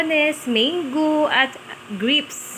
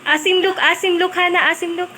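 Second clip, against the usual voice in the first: teasing; 5 semitones higher, faster than usual. Real, not acted. Teasing sour face.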